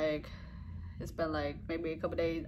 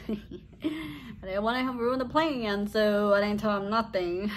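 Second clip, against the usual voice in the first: drawn-out, higher, laughing through it; 3 semitones higher, 3 dB louder, slower than usual. Real, not acted. Mother hiding the plan from her son, laughing. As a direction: giggle your way slowly through it.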